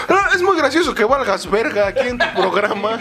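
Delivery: mock heckler. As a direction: imitate a sarcastic critic, voice lifted. Voices a heckler's mock praise.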